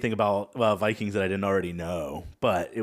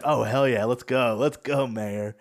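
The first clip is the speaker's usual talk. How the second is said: louder, lightly acted hype; mock cheering; 3 semitones higher, 5 dB louder than usual. Luffy urging the mayor to fight, mock excited. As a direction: egg him on like an eager sidekick.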